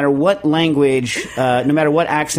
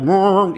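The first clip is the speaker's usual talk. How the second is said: louder, higher mock soulful moan; classic-rock-style vocal noise; 5 semitones higher, 3 dB louder than usual. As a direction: imitate a rock band's singer with a wordless moan. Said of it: "the band, you have to, like"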